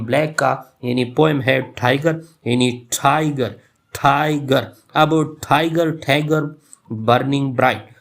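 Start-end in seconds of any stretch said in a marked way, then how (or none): 2.9-4.7 "टाइगर" with TAI drawn out and GAR light; stressed first syllable. Shown as a demonstration. Teacher demonstrating trochaic meter to students, first syllable stressed. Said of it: "मैंने ज़्यादा जोर दिया जो stress part है". 5.5-7.9 "टाइगर बर्निंग ब्राइट" with strong first syllables and a long, strong ब्राइट; trochaic stress. Shown as a demonstration. Teacher reading Blake's line to show trochaic stress. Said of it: "लंबा पढ़ा और strong पढ़ा".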